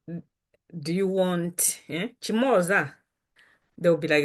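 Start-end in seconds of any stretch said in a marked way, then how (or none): 0.1-2.9 slow playful offer. Pretend. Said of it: "surprise them by saying".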